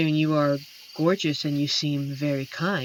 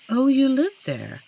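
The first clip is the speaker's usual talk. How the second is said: surprised; 9 semitones higher, 7 dB louder than usual. Acted. Learns the listener lives in the city.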